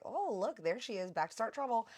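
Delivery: high, playful teasing call; teasing chef. Retold or imitated. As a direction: tease her cheerfully as she walks in. Chef teases her arriving.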